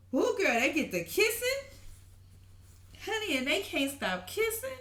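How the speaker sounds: excited squeal. Real, not acted. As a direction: cheer them on like a fan. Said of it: "I'm so happy for 'em".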